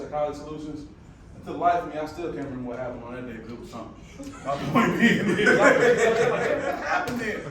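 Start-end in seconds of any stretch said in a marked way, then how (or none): 4.4-7.5 laughing through the words, high and loud, drawing out the question. Real, not acted. Speaker to the audience, laughing at a forgotten day. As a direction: chuckle it out, amused at not remembering.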